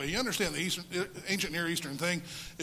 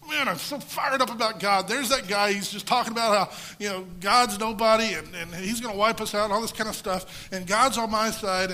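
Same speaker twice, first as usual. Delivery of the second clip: loud, high, pumped-up battle cry; a young warrior hyped up before the fight; fired up; 4 semitones higher, 7 dB louder than usual. Retold or imitated. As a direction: shout it like you can't wait to fight. David imagined charging Goliath.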